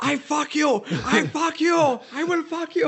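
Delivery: high, mock heavy German accent threat; over-the-top German accent, mock menace. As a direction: ham up the East German thug's threat. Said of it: "you gotta picture it with that heavy, like, German accent".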